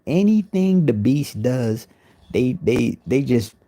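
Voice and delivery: loud, slowed rant opener; loud slow hype. Acted.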